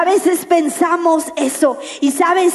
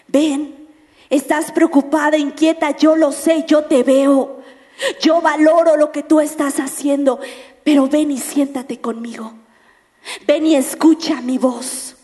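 gentle invitation. Retold or imitated. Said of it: "no estaba enojado con ella".

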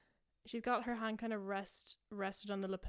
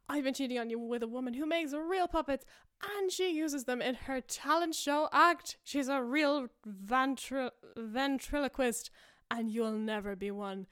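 hammed-up yell; 3 semitones higher, 6 dB louder than usual. Husband taunting wife about a ventriloquist, loud melodramatic yell. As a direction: drag out the insult like a soap villain. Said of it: "And he's like".

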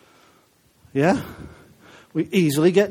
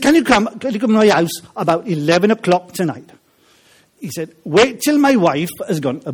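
put-on Welsh accent; 3 semitones higher, 5 dB louder than usual. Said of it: "try and do it with a Welsh accent".

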